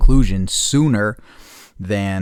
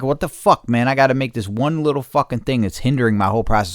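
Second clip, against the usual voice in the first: frustrated outburst; 5 semitones higher, 4 dB louder than usual. Retold or imitated. Retelling his frustrated outburst.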